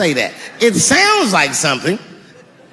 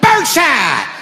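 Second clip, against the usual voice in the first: laughing shout as he fires; gleeful yell; 8 semitones higher, slower than usual. Pretend. Homeowner shooting the junkie, laughing shout. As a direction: yell it through laughter, pulling the trigger. Firing shotgun at intruder.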